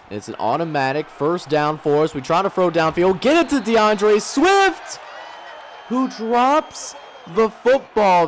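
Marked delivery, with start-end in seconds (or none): 3.2-8.3 disappointed. Real, not acted. Receiver drops a catchable pass.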